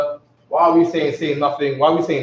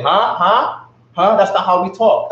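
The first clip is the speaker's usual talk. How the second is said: higher, puzzled "Huh?" repeated; mocking a confused learner; 5 semitones higher than usual. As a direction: mimic someone lost in Chinese. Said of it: "they, they, they say".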